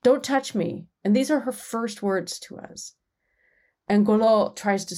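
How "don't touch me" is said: high, slow, pleading don't touch me; a retold young woman's scared plea, pitched high; frightened cry. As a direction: pull back from his hand in alarm. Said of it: "she cries".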